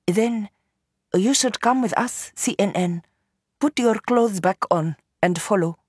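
a hint of a character voice for a woman giving orders; lightly voiced, self-assured young woman's instruction; lightly voiced Noor.

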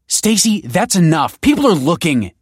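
high urgent yell. Acted. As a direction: shout at her to stop. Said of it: "yelled Kelsey".

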